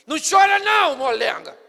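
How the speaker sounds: grito áspero, bem mais alto e agudo; rude. Shown as a demonstration. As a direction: bronca sem dó na viúva. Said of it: "Ele poderia falar assim". (grito grosseiro à viúva)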